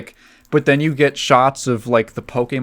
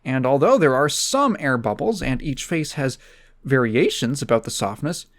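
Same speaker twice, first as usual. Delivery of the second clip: higher, animated mock-reviewer read; Doug Walker voice; 5 semitones higher than usual. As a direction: pitch up and go indignant over each skin flaw. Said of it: "Let me do my Doug Walker reading off this".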